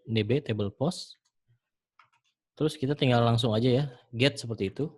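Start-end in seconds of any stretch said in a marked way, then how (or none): 0.0-1.2 slow dictation. Shown as a demonstration. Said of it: "tinggal D".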